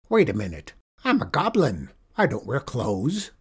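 a goblin catching on. Acted. Goblin realizes trick.

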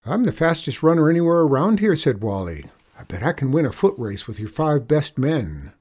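put-on boastful boy. Boy challenging outlaws to a race, boastful. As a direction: brag it out eagerly.

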